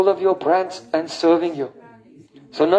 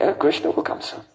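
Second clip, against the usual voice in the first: hushed hope; 4 semitones lower, 4 dB quieter than usual. Acted. Radhika hopes, making a garland.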